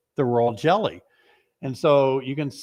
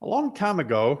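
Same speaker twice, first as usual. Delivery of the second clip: out of breath; 3 semitones higher than usual. Real, not acted. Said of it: "whew, I'm out of breath".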